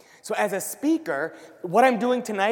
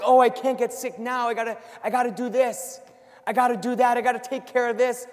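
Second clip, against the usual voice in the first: stressed; 4 semitones higher, 3 dB louder than usual. Retold or imitated. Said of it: "So if you're stressed".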